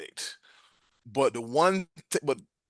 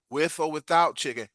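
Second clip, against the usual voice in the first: acted, slower "with or without chicken"; slowed-down repeat. Server repeating the question to guest, slow and deliberate. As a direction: spell it out slowly for her.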